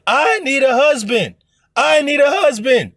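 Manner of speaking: mild imitation of a screaming plea; hysterical screaming woman. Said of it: "hysterically just, ah, just screaming out".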